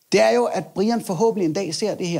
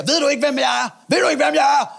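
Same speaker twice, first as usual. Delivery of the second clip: angry biker shout; 7 semitones higher than usual. Retold or imitated. Biker shouting, grabbing logo.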